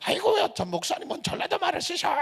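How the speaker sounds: high-pitched, teasing exclamation; imitated congregant. Congregant's remark on dialect, acted.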